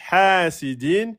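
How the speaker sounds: "hasidin" with a long first vowel, rising at the end; long-short-short rhythm. Shown as a demonstration. Teacher showing the scheme, "hasidin" long then short. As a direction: hold "ha", then two short beats in "hasidin". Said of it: "Deux temps, un temps, un temps".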